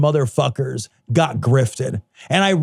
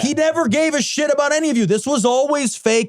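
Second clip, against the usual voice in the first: heated, raised-pitch tirade easing slightly toward the end; scornful rant; 3 semitones higher than usual. Real, not acted. Podcaster telling duped followers they got used, scornful rant. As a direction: lay into them, point after point.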